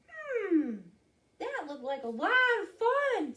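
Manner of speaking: high, loud little mouse; high-pitched storybook mouse. Acted. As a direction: squeak it out as a small mouse. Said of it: "said Mouse".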